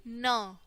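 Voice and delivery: न as "nuh", consonant plus short vowel; letter sound demo. Shown as a demonstration. Teacher showing the sound of N, letter sound demo. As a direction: sound out न on its own. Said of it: "एन की sound आएगी".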